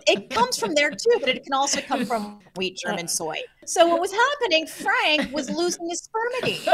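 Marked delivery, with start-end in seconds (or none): 3.6-6.6 high, laughing delivery. Real, not acted. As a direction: giggle through it. Laughing punchline.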